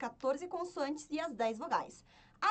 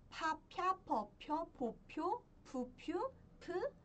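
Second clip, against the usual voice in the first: "Pá, piá" in quick pairs, lifting at each end; syllable drill; 3 semitones higher, 4 dB quieter, slower than usual. Shown as a demonstration. Teacher counting along the row to find pi, syllable drill. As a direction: run lightly up the row, pair by pair.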